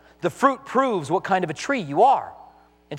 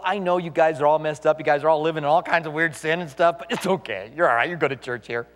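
lower, easygoing lax preacher, lightly voiced; mock a pastor who says sin is fine; lightly voiced complacent pastor, lower pitch; mock soothing pastor; 4 semitones lower than usual. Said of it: "When he tells people".

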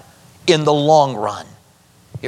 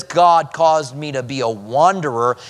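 understated complaint, more level delivery; blaming. Acted. Preacher quoting Abraham blaming God, mildly reproachful. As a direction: lay the blame on God, mildly. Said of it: "he's blaming God".

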